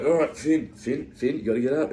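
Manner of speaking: retold urging. Friends rousing their sick mate Finn, retold urging. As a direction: call his name, nudging him to rise.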